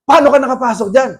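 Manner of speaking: rising to a sharp loud demand; stern rebuke. Retold or imitated. Preacher confronting a demon, sharp loud demand.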